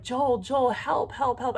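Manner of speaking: understated retold panic; retold terrified scream. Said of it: "And I'm screaming. I am in terror".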